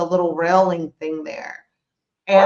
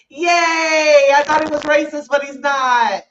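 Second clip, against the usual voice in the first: mock cheering; 5 semitones higher than usual. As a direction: cheer it like a hammed-up celebration. Mock celebration of guard's fairness.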